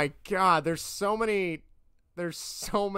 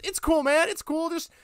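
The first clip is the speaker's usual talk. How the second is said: much higher, hammed-up creepy pal; creepy guy; 8 semitones higher, 4 dB louder than usual. Creepy driver inviting the kids to his party, high and coaxing. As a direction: coax like a creepy stranger. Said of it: "then says".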